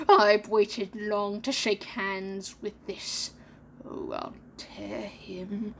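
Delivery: menacing captain. Acted. Hook threatens Peter Pan.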